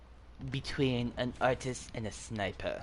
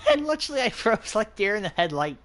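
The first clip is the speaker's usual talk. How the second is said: laughing; 7 semitones higher, 4 dB louder than usual. Real, not acted. Laughing after freezing in game.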